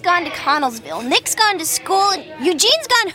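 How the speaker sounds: frazzled venting. Acted. Overwhelmed counter worker explains to a customer why she is muddled, frazzled.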